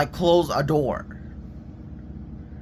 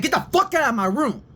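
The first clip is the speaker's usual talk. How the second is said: retold angry outburst, pitched way up; pissed off; 8 semitones higher than usual. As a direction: order them out in a high, fed-up voice. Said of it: "I started getting pissed off".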